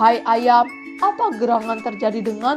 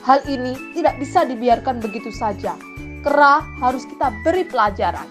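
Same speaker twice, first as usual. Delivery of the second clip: firm indignant resolve; lightly acted crab anger; furious crab. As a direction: declare angrily that this will not pass. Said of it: "dengan geram".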